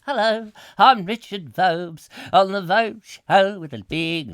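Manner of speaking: slow, drawn-out doddering presenter; weary future host. Pretend. Presenter years into an endless lockdown show, weary mock host. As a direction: stretch out every word like a worn-out veteran.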